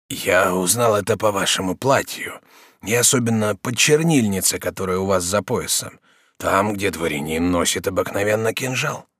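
a hint of a dying prisoner; dying old prisoner. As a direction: speak as a man near death. Prisoner explains.

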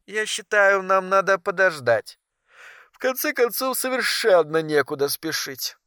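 high, soft female figure, drowsy and reluctant; sleepy Naomi. A narrator's reading. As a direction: put him off quietly in a high voice. (сонным тихим женским голосом)

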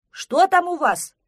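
loud, high, slow call; shouting. A narrator's reading. Кавриксон calls to the friends down the slope, shouting. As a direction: call out as if from afar. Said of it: "крикнул Кавриксон".

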